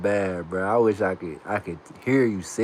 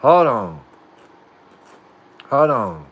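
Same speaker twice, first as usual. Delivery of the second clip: loud; 9 dB louder, slower than usual. Real, not acted. Suddenly calling out.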